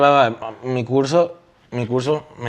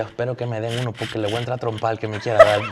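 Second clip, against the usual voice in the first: laughing; 4 dB quieter than usual. Retold or imitated. Recalling his threat, laughing.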